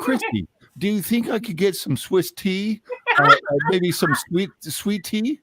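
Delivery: high-pitched mock Southern voice; hammed-up Southern accent; put-on Southern accent. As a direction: play a flustered Southern type, pitched high. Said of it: "we're still like this".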